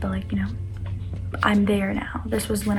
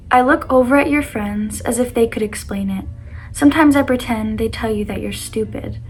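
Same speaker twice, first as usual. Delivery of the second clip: reading her poem aloud, louder; 4 dB louder than usual. Acted. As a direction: read it like a heartfelt poem. Reads her own breakup poem aloud.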